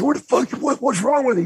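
high alarmed shout; high, startled what-the-hell; startled yell. Retold or imitated. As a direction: burst out in shocked alarm. Storyteller yelling at Terry, retold.

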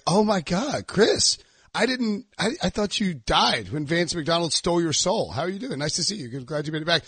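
lightly sarcastic fake sympathy; sarcastic mock concern. Rival lineman greeting the returning player, sarcastic fake sympathy. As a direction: pretend to care, but let the sneer show. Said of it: "in that sarcastic tone".

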